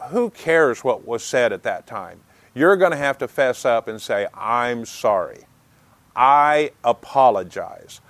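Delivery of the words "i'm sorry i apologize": apologetic. Pretend. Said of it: "I come to you with an apologetic attitude".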